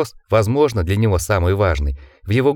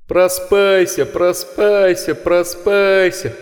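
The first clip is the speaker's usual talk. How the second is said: inhuman chorus; 9 semitones higher, much slower than usual. Acted. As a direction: drag it out like beast-men. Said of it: "подключился второй хор". (протяжный громкий хор зверолюдей)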